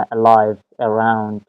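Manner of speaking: "Alive" with a weak "uh", weight on "live"; barely touch the A of "around", land on "round"; schwa opening. Shown as a demonstration. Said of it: "شوا ساوند تشکیل داده".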